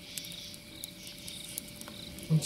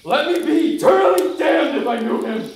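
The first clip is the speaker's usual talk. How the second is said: loud, much higher, frantic swearing; desperate oath; 10 semitones higher, 4 dB louder than usual. Acted. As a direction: swear it with wild fear. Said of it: "I lost it. I panicked. I was scared".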